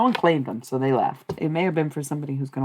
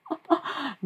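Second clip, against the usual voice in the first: laugh; 9 semitones higher than usual. Real, not acted. Amused after naming the spirit.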